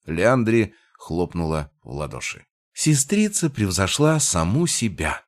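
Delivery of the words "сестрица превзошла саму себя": high, excited exclamation; exclaiming. A narrator's reading. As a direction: cry it out delighted. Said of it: "воскликнула она". (восторженно восклицая)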